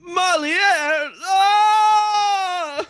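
high angry outburst; furious shout. Acted. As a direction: explode with rage at the name. Wizard enraged by the name.

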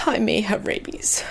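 whispered, trembling confession; quivery whisper. Retold or imitated. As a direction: breathe it out, scared and shaky.

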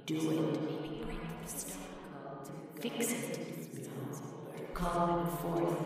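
hissing snake haired. Acted. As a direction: hiss like snakes urging her on. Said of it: "Her serpents in her hair hissed and whispered".

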